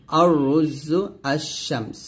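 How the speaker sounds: আর রুজু আশ-শামস slowly, lam dropped into a doubled r and sh; silent lam. Shown as a demonstration. Teacher giving examples of sun letters, lam silent in আশ-শামস. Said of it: "লামের উচ্চারণ হয় না".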